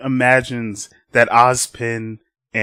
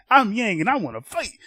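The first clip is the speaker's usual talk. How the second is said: higher-pitched, hammed-up battle cry; eager fighter Yang; 10 semitones higher than usual. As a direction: announce yourself, itching to fight. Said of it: "And then she's like".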